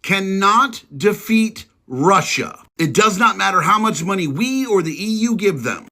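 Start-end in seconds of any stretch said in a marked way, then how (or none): 0.0-2.6 slow, word by word; real slow. Shown as a demonstration. To the liberals in the back, slow and deliberate. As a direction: spell it out slowly for the doubters. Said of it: "I'm gonna say it real fucking slow".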